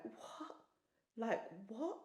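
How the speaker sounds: hushed, barely voiced disbelief; stunned disbelief. Woman recalling hearing God's voice, stunned and hushed. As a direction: let it out as a stunned whisper.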